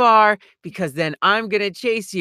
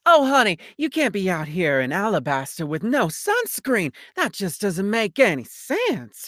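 Southern drawl. Retold or imitated. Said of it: "the cowboy voice".

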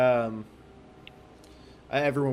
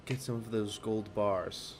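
possessed command. Acted. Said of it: "and he goes".

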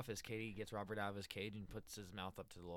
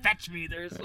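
demon voice; 4 semitones higher, 9 dB louder than usual. Retold or imitated. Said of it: "The demon one".

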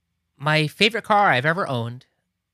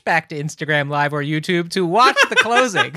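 laughing; 2 semitones higher, 4 dB louder than usual. Real, not acted. Laughing through a rant.

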